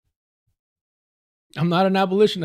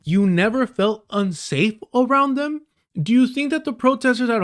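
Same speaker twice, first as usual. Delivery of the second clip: incredulous; 8 semitones higher than usual. Real, not acted. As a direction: echo the line back in disbelief. Mocking the clip in disbelief.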